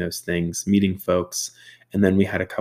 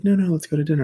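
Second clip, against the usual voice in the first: imitating the host; 10 semitones higher, much faster than usual. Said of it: "He's like".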